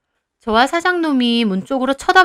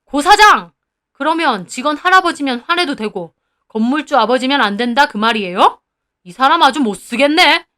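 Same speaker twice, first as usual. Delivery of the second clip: angry shout; 5 dB louder than usual. Acted. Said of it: "눈이 더 뒤집히더라고요".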